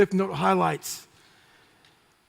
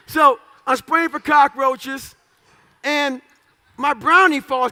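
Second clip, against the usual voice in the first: louder, slow, stretched buildup line; 3 semitones higher, 6 dB louder, slower than usual. Real, not acted. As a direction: draw it out loud for the punchline. Building the story to the crowd.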